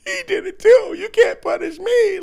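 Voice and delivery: put-on high, slow childish whine; whiny toddler. Grown man mocking critics as a whining toddler. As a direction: whine it like a four-year-old caught out. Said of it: "a little four-year-old pointing at the other kid".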